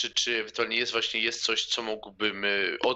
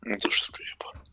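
hushed whisper aside; 3 semitones lower than usual. Real, not acted. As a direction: whisper it under your breath. Player mutters aside at table.

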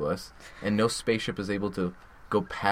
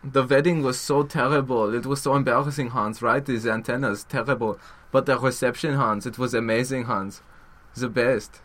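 campy mock German accent; Hitler. Dictator telling Hans the punchline, mock German accent. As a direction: gush through the joke in fake German accent. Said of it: "He was like".

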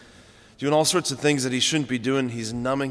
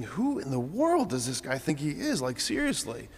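a first-century Jew hearing the rabbi, incredulous; 4 semitones higher than usual. Retold or imitated. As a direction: scoff in disbelief, then peak on the last line. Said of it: "and you're thinking".

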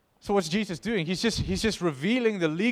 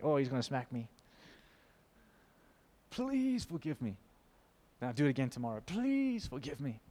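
mock self-condemning plea; 6 dB quieter than usual. Preacher imitating believers beating themselves up, whiny pleading. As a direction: play the cringing believer pleading forgiveness. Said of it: "beating ourselves up ... thinking".

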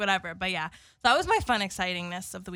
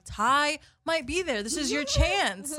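slow and higher, selling it; persuasive push; 4 semitones higher, slower than usual. Retold or imitated. Teller coaxing friend to come, slow and persuasive. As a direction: dangle the bait slowly. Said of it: "and I was like".

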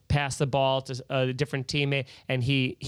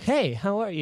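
smooth talking; 6 semitones higher than usual. Shown as a demonstration. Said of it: "they always have that smooth talking".

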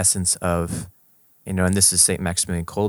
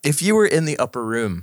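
put-on country accent; 5 semitones higher than usual. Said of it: "in country accents".

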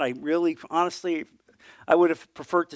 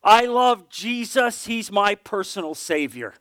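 slow and clear, each word of I love Jesus set apart; a girl's clear, simple confession; 4 semitones higher, slower than usual. Retold or imitated. Teenage girl tells church she loves Jesus, clear and slow. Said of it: "said in the most clear voice".

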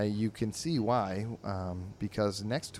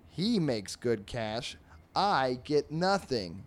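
fly voice; 4 semitones higher, slower than usual. Acted. Fly complains in comic.

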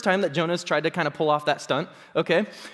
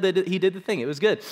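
ordinary talk, nothing marked

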